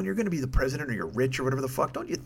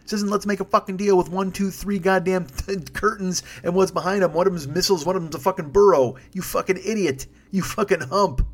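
retold rant; 5 semitones higher than usual. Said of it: "I'm like".

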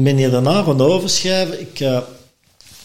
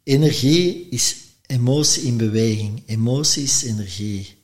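quoted maxim. Retold or imitated. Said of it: "die zegt".

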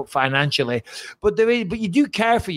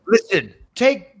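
TV commercial voice. Pretend. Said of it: "that gets me every time when the T V commercials".

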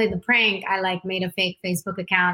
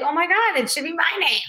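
mock excitement; 9 semitones higher than usual. Joking excitement.

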